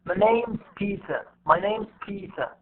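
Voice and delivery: NAME'S and PETER held, is shrunk to an s; slow beats on name's and Peter only; unstressed is. Shown as a demonstration. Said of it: "And the same one for this".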